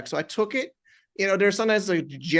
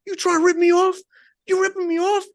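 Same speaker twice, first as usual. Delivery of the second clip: high, loud mock yell down the phone; retold yelling client; 14 semitones higher, 6 dB louder than usual. Client on the phone yelling at the trader, loud mock yell. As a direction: bark it like an angry client on the line. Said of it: "you can hear somebody yelling at him".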